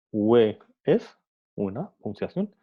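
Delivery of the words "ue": ue said lower with a gentler rise; rising tone again. Shown as a demonstration. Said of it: "el tono de voz va aumentando".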